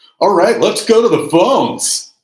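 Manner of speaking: very high, loud, over-the-top obnoxious radio DJ voice. A host switches voices to take phone calls, in an obnoxious radio voice. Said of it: "I'm going to do my obnoxious radio voice".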